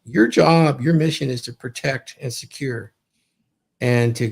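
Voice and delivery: normal talking voice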